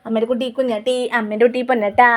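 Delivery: cooing pet names, lightly sing-song. Real, not acted. Mother soothing her baby with fond baby talk. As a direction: soothe the little one with endearments.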